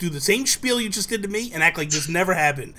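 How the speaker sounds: acting out laying down a cover story; insistent instructions. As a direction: press the clerk hard, half-joking. Acted insistent instructions to store clerk.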